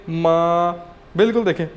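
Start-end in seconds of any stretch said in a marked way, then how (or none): 0.1-0.7 मा held level and flat, no rise or fall; first tone. Shown as a demonstration. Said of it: "तो हम इसको कैसे बोलेंगे". (मा को सीधी सपाट टोन में)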